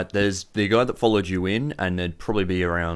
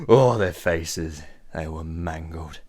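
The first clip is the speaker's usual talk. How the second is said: slow words, fading and dropping; recovering from laughter; 3 semitones lower, much slower than usual. Acted. Boss recovering from hysterics, slow and trailing off. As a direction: sigh out the tail of a laughing fit. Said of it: "he recovers".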